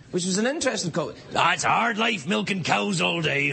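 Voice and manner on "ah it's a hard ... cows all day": pirate voice. Retold or imitated. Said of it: "he talked like a pirate".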